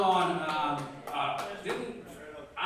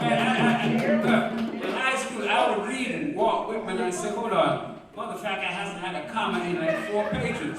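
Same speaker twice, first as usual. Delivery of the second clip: animated telling; 2 semitones higher, 8 dB louder than usual. Real, not acted. Animated story about Whitman.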